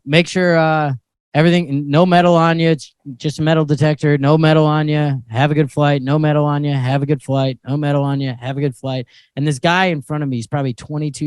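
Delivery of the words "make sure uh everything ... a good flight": low, droning TSA agent routine; reciting a script. Retold or imitated. TSA agent to everyone in line, low rote recital. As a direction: rattle off a rote security script, lower. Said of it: "going through the script".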